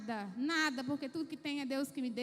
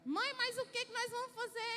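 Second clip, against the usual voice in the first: put-on higher pleading child's voice; worried child; 7 semitones higher than usual. Children begging their mother, higher and pleading. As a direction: whine it like an anxious kid.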